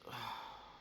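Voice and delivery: soft, breathy sigh; long exhale of appreciation; admiring sigh. Real, not acted. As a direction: sigh in awe of a favorite. Moved by favorite film.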